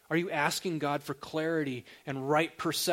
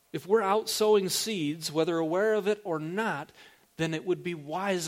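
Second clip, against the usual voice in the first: preaching emphasis; 5 semitones higher, 7 dB louder than usual. Real, not acted. Preacher pressing point.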